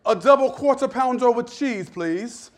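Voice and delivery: put-on playful British accent, overly polite; mock British accent. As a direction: order it in a light British accent. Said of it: "I say it British".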